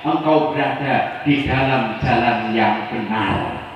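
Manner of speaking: put-on baby urging his mother, slow and solemn; solemn speaking baby. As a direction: speak as a miraculous infant comforting his mother. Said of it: "ngomongnya kayak gini".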